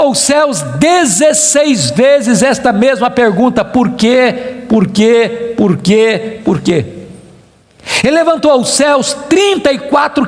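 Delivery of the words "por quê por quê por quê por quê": each why lower than the last; a retold lament dropping away; repeated plea sinking. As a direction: let the question sink step by step, ending very low. Repeats Job's question, sinking lower.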